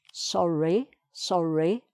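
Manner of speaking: "sorry" with a sounded R in the middle, rising at the end; teacher's careful "sorry", middle R pronounced; R on second syllable. Shown as a demonstration. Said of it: "Second syllable again".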